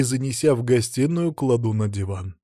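usual speaking voice

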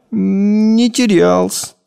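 put-on timid boy. Boy drawling timid denials.

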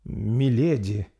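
slow, hesitant "Миледи"; lost for words; confused. Acted. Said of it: "растерянно ответила молодая повитуха".

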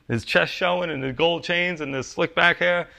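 a hint of the smooth-talking salesman; stereotypical salesman. Preacher describing Jacob as a car salesman, lightly hammed. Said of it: "I'm like the stereotypical salesman".

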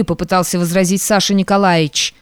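ordinary delivery, nothing marked

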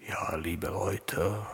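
low, half-asleep raspy voice; rough sleepy rasp; Humphrey Bogart voice. Real, not acted. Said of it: "Humphrey Bogart-Stimme".

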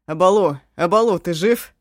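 loud frantic call; alarmed shout. Acted. Eshu calls the dying man.

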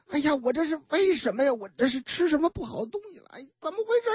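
fast, rising worried questions; confused and scared, pitch climbing; bewildered panic. Retold or imitated. 王姑娘腹痛不解. (慌张又困惑地连声发问)

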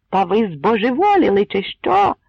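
loud, ringing high shout; brassy shout. A narrator's reading. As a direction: bellow it in disbelief. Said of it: "закричав мідяним голосом". (мідяний голос сивобородого дядька)

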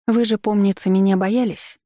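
ехидно, чуть выше; с подколкой напомнить; язвительно. Acted. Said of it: "съязвила я". (язвительно)

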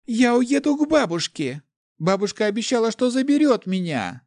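high, loud tearful pleading; a crying child clinging to hope; girl sobbing. A narrator's reading. Locked-in girl cries that grandma will save her. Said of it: "Девочка плакала просто навзрыд".

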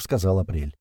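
usual speaking voice

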